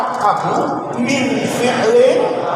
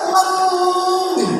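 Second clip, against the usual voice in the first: "Ngeng" called out higher and louder, a drawn-out nasal buzz; louder imitated hum; 6 semitones higher than usual. Teacher calls the hum back to his old student, playful shout. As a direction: throw the hum back at him, half-shouting. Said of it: "saya bilang".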